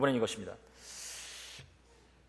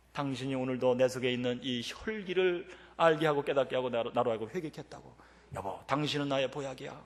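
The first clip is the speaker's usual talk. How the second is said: tender confession; 2 semitones lower, 6 dB quieter than usual. Retold or imitated. Husband thanking his wife for his repentance, softly sincere. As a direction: speak softly, humbled and grateful.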